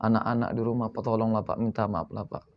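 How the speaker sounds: soft, begging whine to a passer-by; pleading beggar. Retold or imitated. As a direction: plead like a hungry beggar asking for alms. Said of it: "Macam mana kira-kira? Minta sedekah".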